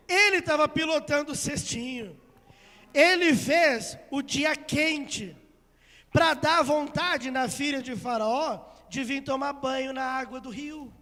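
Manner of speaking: emphatic, loud proclamation; impassioned preaching. Acted. Preacher telling church God steered the basket, emphatic preaching. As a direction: hammer the key words, drawing them out.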